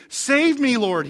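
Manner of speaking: mild mock cry for help, starting high; retold shout. Peter sinking in the waves, half-shouted plea. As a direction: call out briefly, then let it fall. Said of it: "he shouted".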